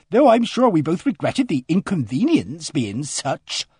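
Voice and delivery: a flustered countrywoman pouring out her news; voiced housekeeper. Mrs Baker's long speech.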